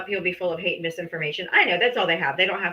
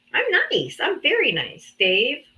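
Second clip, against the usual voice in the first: mock sweet; 5 semitones higher than usual. Teasing Dave, high sing-song.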